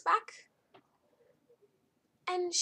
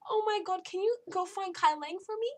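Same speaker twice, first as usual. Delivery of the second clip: much higher and louder, sugary voice; mocking chummy Arya; 9 semitones higher, 4 dB louder than usual. Arya asking the Elusive Man for a favour, sugary mock voice. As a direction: sweet-talk a favour, overdone. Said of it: "they're just all friendly and happy".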